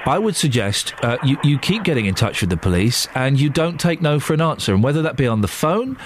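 low-pitched, serious counsel; earnest advice. Real, not acted. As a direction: advise a worried caller firmly, pitched well down. Host gives earnest safety advice.

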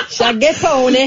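words through giggles; laughing. Real, not acted. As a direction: say it while cracking up. Repeats phrase through laughter.

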